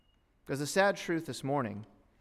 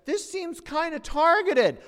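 very high, slow, loud squeaky mock voice; timid objector; 14 semitones higher, 7 dB louder, slower than usual. One person daring to object to the rules, high mock voice. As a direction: pipe up in a high put-on voice. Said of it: "one person dares to say".

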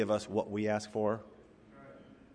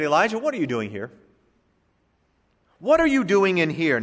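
gentle reproof; 4 semitones higher, 3 dB louder than usual. Retold or imitated. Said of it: "a tacit reproof from God".

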